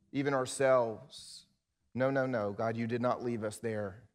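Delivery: closing prayer. Acted.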